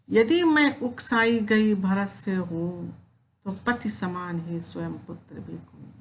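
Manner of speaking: poem recitation. Acted. Teacher reciting Kaikeyi's plea to Ram, measured poem recitation.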